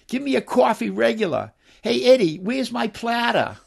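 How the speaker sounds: high-pitched Medford diner call; Medford accent. Acted. Novelist reads his townspeople ordering food, Medford accent. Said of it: "the sounds of that accent".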